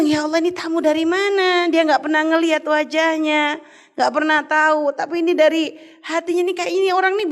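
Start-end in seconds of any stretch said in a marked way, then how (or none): 0.0-1.7 imitating happy wonder, pitched higher; mildly delighted retold exclamation, high voice; senang. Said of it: "Dia tuh seneng". (takjub gembira, nada tinggi)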